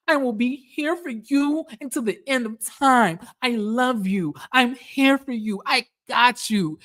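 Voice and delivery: mock her over-the-top devotion; imitating Britt. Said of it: "I'm gonna try to do the voice".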